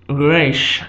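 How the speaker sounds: "Resh" with a throaty r from the back of the throat; "Resh", guttural back r. Shown as a demonstration. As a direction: roll "Resh" from the throat like a French r. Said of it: "pronounced with a guttural R sound".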